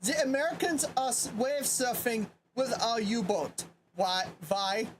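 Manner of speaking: light German accent, words spaced out; attempted German accent. Shown as a demonstration. Repeating the U-boat line for friends, attempted German accent. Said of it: "that's my honest attempt at a German accent".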